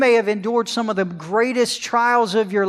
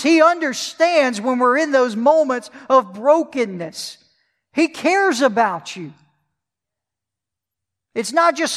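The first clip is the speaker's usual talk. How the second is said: higher and louder, rising sermon fervor; preaching at full force; 6 semitones higher, 5 dB louder than usual. Acted. Preacher to his congregation, full-force preaching. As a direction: swell up and press the comfort home to them.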